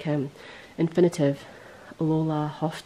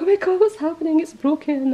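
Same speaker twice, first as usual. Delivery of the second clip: high, loud mock-panicked outburst; retold panic; 11 semitones higher, 7 dB louder than usual. Knitter retelling her panicked online yarn order, mock-panicked. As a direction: act out a frantic panic, much higher and louder. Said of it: "I was pure panic".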